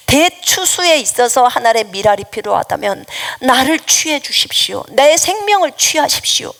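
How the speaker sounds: earnest retold prayer, rising toward the last plea; 간구하는 기도. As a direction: plead with the Lord, offering yourself up. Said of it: "기도를 하면서 경배에 절을 했어요". (간절히 올리는 기도를 재연하듯)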